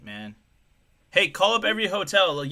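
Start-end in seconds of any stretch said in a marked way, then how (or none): 1.1-2.3 loud, higher mock boss barking orders; a hammed-up governor calling out.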